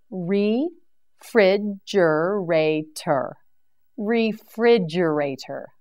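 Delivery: "Refrigerator" stretched slowly, every syllable held; a slow, careful "Refrigerator" for learners; drawn-out model word. Shown as a demonstration.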